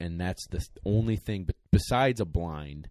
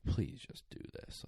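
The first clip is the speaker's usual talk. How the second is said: breathy whisper, pitched up; whispered plea; 7 semitones higher, 8 dB quieter than usual. Retold or imitated. To his two dogs, a whispered plea. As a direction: plead softly under the breath. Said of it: "and I'm like".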